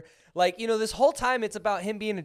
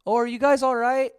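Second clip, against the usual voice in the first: mocking the actor's line; 6 semitones higher, 6 dB louder than usual. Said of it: "That's how he said it to his son".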